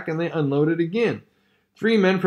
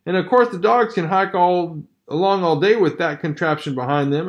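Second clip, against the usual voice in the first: sarcastic; 4 semitones higher than usual. Acted. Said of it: "affirmed the second of the men".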